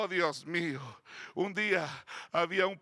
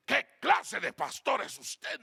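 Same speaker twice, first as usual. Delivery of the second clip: slow, higher-pitched mock indignation; indignant old woman; 5 semitones higher, slower than usual. Offended churchgoer scolding her pastor, mildly indignant. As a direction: act out a mildly outraged scolding. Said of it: "Se enojó y dijo".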